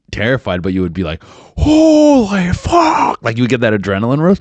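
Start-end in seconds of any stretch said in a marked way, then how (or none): 1.6-3.2 high, very slow, stretched out holy fuck; stunned relief. Retold or imitated. Crash survivor, drawn-out high cry of stunned relief. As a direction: drag it out in disbelief.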